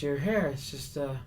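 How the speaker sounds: high, hesitant character voice; Andy Kaufman. Retold or imitated. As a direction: puzzle aloud in a put-on high voice. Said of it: "staying in the Andy Kaufman character".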